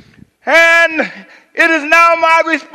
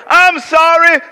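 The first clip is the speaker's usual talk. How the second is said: blaming apology; 4 semitones higher, 3 dB louder than usual. Shown as a demonstration. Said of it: "Let me show you how this works".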